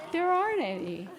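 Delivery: chuckle, then say it amused; laughing. Real, not acted. Preacher enjoys the joke's punchline, laughing.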